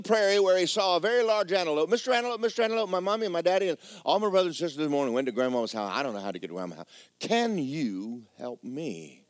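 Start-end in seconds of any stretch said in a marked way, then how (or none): 1.9-9.2 little creature. Acted. Little creature pleads to antelope.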